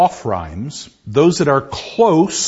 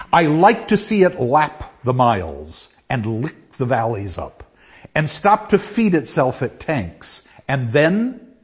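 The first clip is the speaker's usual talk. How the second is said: measured poem recital; poem reading. Acted. Lecturer reading the train poem to class, measured recital. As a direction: savor each image as you read.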